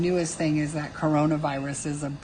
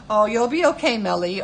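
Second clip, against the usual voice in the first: loud, higher, exaggerated fake sympathy; mock condescending; 4 semitones higher, 6 dB louder, faster than usual. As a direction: patronize them playfully, dropping on the name. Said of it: "condescending way".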